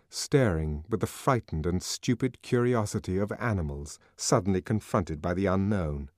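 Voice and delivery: ordinary delivery, nothing marked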